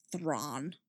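low, soft growl. A narrator's reading. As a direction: growl the name under your breath. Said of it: "she growled softly".

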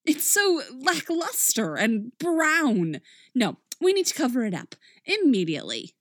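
fussy Miss Piggy. Acted. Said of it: "waving her feather boa around like she's having some sort of fit".

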